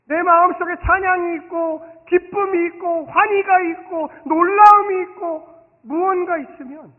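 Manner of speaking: loud, slow, pounding sermon delivery; full-force preaching. Acted. Pastor urging the congregation, preaching at full force. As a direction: drive every phrase home from the pulpit.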